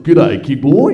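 loud, hammed-up Aussie greeting; exaggerated Australian accent, punched out loud; thick Aussie accent. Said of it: "how thick his Aussie accent is".

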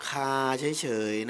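คา held long on an even tone, without rising; level tone on คา. Shown as a demonstration. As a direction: say คา plainly, pitch not going up. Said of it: "ไม่ต้องทำเสียงสูงขึ้นไปอีกนะ".

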